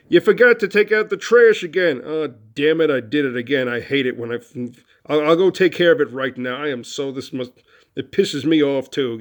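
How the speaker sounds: mock-angry venting that settles as it goes; demonstrated angry tone. Shown as a demonstration. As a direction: play exasperated, self-blaming anger. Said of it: "but with an angry tone".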